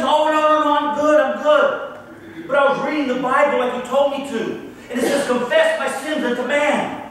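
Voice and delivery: eager, bubbling over with news; a convert proudly explaining; mildly excited former dealer. Retold or imitated. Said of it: "he was all excited".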